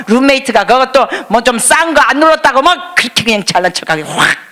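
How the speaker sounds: hammed-up scolding harangue; mock angry rebuke. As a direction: play a furious scold, tongue in cheek. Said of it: "이러지 않으셨어".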